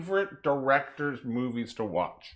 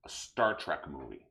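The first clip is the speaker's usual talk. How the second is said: whisper; 10 semitones lower, 8 dB quieter than usual. Real, not acted. Whispered aside.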